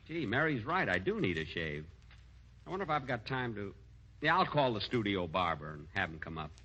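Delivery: soft, low musing to himself; thinking aloud. Acted. Comedian alone deciding to call the barber, quiet musing. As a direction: mull it over quietly, alone.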